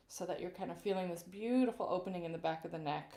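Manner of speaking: soft soothing yoga-teacher tone. Real, not acted. Vocal coach guiding a neck stretch, yoga-teacher style. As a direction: lull them like a yoga instructor. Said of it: "I just sounded like a yoga teacher".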